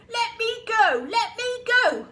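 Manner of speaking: loud, high, desperate yell. A narrator's reading. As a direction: scream to be let down. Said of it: "yelled the enormous crocodile".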